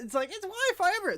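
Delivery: fast, high, sarcastic take on "Wi-Fi everywhere"; rapid, scornful parroting; mocking restatement. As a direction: toss off "it's Wi-Fi everywhere" quickly and high. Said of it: "There is Wi-Fi everywhere".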